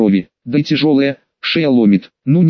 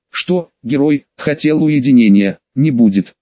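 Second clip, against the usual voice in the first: snide. Acted. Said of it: "ехидно".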